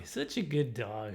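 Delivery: low, slow, soft praise; soft dog praise. Retold or imitated. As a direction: murmur fondly to a dog. Praising the dog again, softer.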